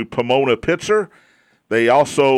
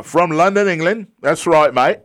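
higher-pitched mock Australian accent for London, England; put-on Australian accent; 5 semitones higher, 3 dB louder than usual. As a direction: play at an Aussie-sounding accent. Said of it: "That sounded like an Australian accent".

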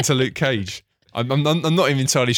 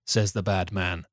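measured, deadpan storyteller read; deliberate storybook delivery; story narration; 2 semitones lower, slower than usual. A narrator's reading. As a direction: narrate a silly recap like a serious tale. Script narration.

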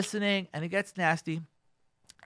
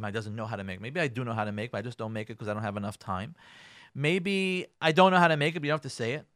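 hurt muttering; 6 semitones lower, faster than usual. Acted. Hurt wife's inner voice.

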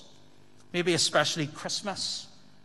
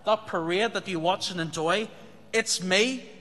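louder, higher declaring voice as Jesus; Jesus speaking to the crowd, louder and higher; voicing Jesus, proclaiming; 4 semitones higher, 3 dB louder than usual. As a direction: announce it boldly as Jesus would. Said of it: "Jesus says".

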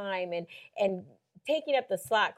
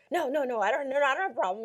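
hasty denial; 3 semitones higher, faster than usual. Retold or imitated. Retold hasty backpedal.

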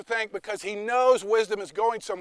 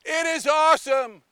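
excited praise; 4 semitones higher, 3 dB louder than usual. Acted. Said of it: "You guys are awesome".

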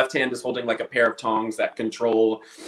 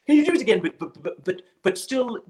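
mock director's note; 10 semitones higher than usual. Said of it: "He'd be like".

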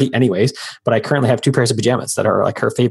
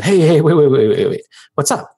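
half-acted loud "hey, wait" with higher pitch; mock client calling out to halt him; retold urgent call; 4 semitones higher, 4 dB louder than usual. Client frantically stopping the freelancer, imitated as a loud call.

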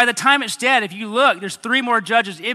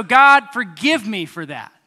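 prayer; 4 semitones higher, 4 dB louder than usual. Shown as a demonstration. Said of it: "Just go".

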